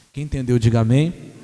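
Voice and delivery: low, booming call for a response; deep-pitched, forceful pulpit call; loud call to congregation. Real, not acted. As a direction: belt out a congregational prompt. Preacher calls congregation to respond.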